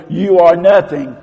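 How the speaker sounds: loud, scornful put-down; lightly voiced bully; bully's accusation. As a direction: sneer it at the listener. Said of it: "or they try to say".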